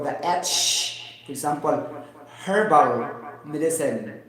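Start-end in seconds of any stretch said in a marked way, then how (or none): 2.5-4.2 herbal said as erbal, slow; silent H. Shown as a demonstration. To the viewers, showing the American pronunciation. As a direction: say herbal with no h, slowly. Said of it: "They drop out the letter H".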